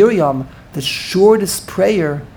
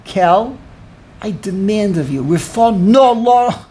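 demanding; 2 semitones higher, slower than usual. Shown as a demonstration. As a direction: act out giving orders, punching the final words. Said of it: "Moshe is giving orders".

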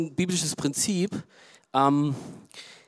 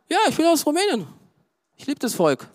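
proud declaration; 11 semitones higher than usual. Real, not acted. Proudly declaring his origin.

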